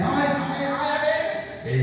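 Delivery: a hint of a frantic driver shouting; mock alarmed yell. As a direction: squeal out the window in mock panic. Yelling at taxi from window.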